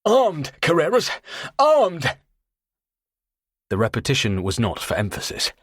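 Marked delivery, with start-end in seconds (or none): 0.0-2.2 high, loud, dry-mouthed croak. Acted. Carter bluffing Tony with a dry croak. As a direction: force words out of a parched throat. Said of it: "had nothing on my croak".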